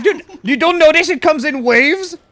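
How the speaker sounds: disbelieving rant at the teammate; retold exasperated shout; incredulous yell. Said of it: "And you're like".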